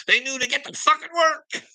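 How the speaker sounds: high, gleeful boast; excited. Real, not acted. Boasting to viewers how workers scattered, high and gleeful. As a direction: crow it proudly.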